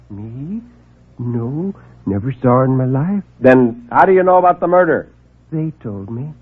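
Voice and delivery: a meek man afraid to speak up; timid little man. Acted. Meek visitor nervously announces a murder.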